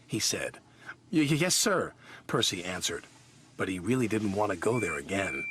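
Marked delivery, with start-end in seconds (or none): 1.1-1.9 nervous stammer. Acted.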